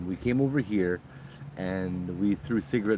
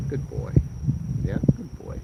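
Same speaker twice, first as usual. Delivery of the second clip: high dog praise; 7 semitones higher, 3 dB louder than usual. Real, not acted. Owner praising his dog in a high sing-song voice.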